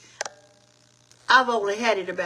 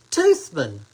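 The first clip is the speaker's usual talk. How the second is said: drops low and louder on Toothman; amused name reading; 6 semitones lower, 5 dB louder than usual. Real, not acted. Host reads a viewer's funny surname, low amused. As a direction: savor the odd name Toothman, low and loud. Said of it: "Isn't that something?".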